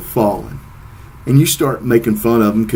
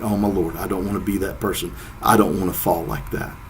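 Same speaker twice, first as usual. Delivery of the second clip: softer, muttered worry under the breath; quietly dreading the fall; nervous inner thought; 2 semitones lower, 7 dB quieter than usual. Retold or imitated. Thinking to himself before getting off the lift, softly worried.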